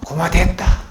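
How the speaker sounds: 고마됐다 said out loud and full; loud Gyeongsang 고마됐다 on request. Shown as a demonstration. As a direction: say 고마됐다 again, loudly, in Gyeongsang dialect. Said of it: "다시 크게".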